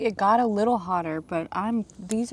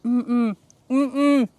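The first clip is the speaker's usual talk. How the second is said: loud, panicked refusal; 5 semitones higher, 7 dB louder, slower than usual. Real, not acted. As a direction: refuse loudly, mouth burning. Refusing the burning hot pepper.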